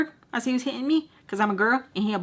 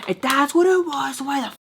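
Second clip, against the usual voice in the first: higher-pitched, exasperated demand; retold annoyed outburst, pitched up; pissed-off retort; 6 semitones higher than usual. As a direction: snap it back like a pissed-off boyfriend. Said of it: "he gets pissed".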